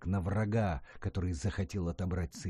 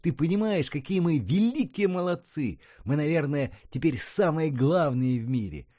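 much higher, louder, bursting with pride; thrilled boy; 8 semitones higher, 6 dB louder than usual. A narrator's reading. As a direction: shout the triumph to granny. Boy thrilled about space.

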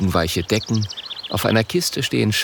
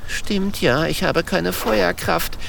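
sulky; 9 semitones higher, slower than usual. A narrator's reading. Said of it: "denkt der kleine Drache verdrossen".

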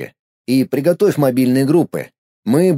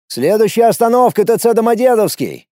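shouting to friends; 7 semitones higher than usual. Acted. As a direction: shout the next stop to the group. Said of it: "крикнул я друзьям".

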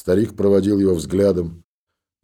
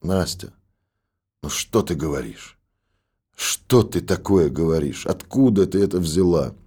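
pleading. A narrator's reading. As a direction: gently beg her to stop. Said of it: "умоляюще произнёс".

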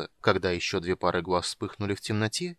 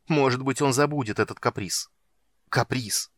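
heated accusation; 2 semitones higher, 4 dB louder than usual. Acted. Palin accuses his father.

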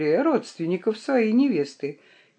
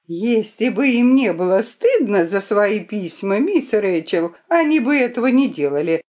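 oracle voice; 3 semitones higher, 4 dB louder than usual. Acted. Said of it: "провозгласила Лидди голосом оракула".

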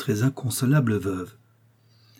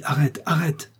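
calling out; 5 semitones higher than usual. A narrator's reading. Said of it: "je crie".

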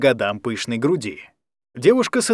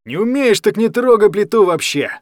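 loud, much higher furious yell; angry shout; 7 semitones higher, 5 dB louder than usual. A narrator's reading. Guardian yelling at Kostya for leaving the gas on, loud and high. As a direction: guardian roars at the boy after slapping him. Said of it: "закричал он".

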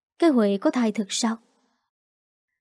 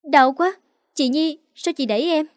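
pained cry; 6 semitones higher than usual. A narrator's reading. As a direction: cry out in pain, then question accusingly. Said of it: "một tiếng thét vang lên". (kêu thét vì đau)

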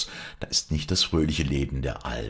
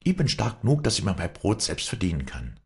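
put-on higher, proud young woman; defiant daughter; 6 semitones higher than usual. A narrator's reading. Wally refusing her father, higher defiant voice. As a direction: defy him, almost mocking.

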